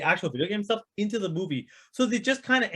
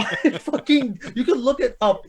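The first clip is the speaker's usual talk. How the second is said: slow words through laughter; can barely get it out for laughing; a real laugh cutting into the phrase; 4 semitones higher, 4 dB louder than usual. Real, not acted. Laughing at dial puzzles.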